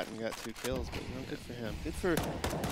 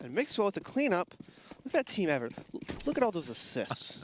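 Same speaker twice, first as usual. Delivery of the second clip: lively, higher-pitched round call; live play-by-play; 4 semitones higher than usual. Real, not acted. Co-caster praising team effort, animated play-by-play. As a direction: call the kills with rising energy.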